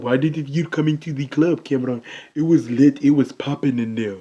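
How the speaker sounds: a light imitation of Kalu's thick accent, hyped about the club; friend's thick accent, loosely mimicked, cheerful. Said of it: "I'm going to use his accent".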